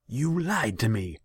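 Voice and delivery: loud, high-pitched angry outburst; outraged shout of betrayal. A narrator's reading. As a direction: raise your voice at the liar. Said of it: "his voice growing louder".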